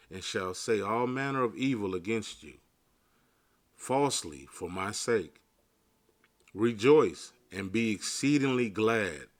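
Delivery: measured, solemn Bible reading; scripture reading. Real, not acted. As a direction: read the verses like a preacher. Reads Matthew 5 aloud.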